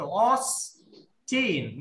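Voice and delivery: অস্টিন very slow with weight on the first syllable; অস্টিন drawn out, strong first beat; forceful Austin. Shown as a demonstration. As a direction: lean hard on অস. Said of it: "মানে জোর দিয়ে".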